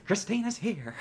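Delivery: laughing through the words; high laughing cheer. Acted. Voicing cheerful Christina, laughing.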